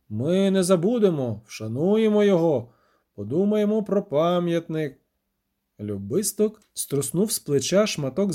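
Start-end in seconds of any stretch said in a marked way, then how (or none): 0.1-5.0 measured official pronouncement; solemn. A narrator's reading. Mayor promising the witcher a monument, solemn. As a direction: declare it formally, like a civic tribute. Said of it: "урочисто сказав бургомістер".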